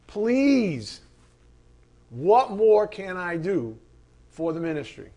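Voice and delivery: slow, pleading volunteer; eager churchgoer begging to help; mock eager plea. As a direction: beg to serve, slowly.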